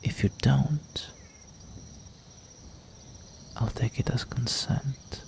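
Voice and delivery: breathy teasing whisper; hushed, predatory whisper close to the ear. Acted. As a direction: whisper a menacing countdown offer. Vampire teasing his prey.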